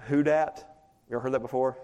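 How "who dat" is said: mock battle cry. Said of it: "the Saints have this battle cry".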